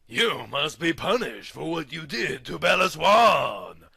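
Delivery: shouted accusation; mild hammed-up villain shriek. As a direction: yell the sentence at the prisoner. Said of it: "he shrieked".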